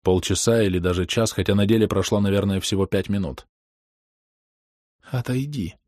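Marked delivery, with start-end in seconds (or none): 5.0-5.8 soft command. A narrator's reading. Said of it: "приказала Рёка".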